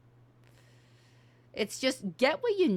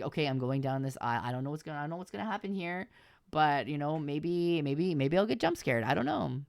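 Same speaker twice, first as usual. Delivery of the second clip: demo streamer narration; faster than usual. Shown as a demonstration. Streamer narrating a horror game to nobody, hushed and quick. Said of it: "It's like".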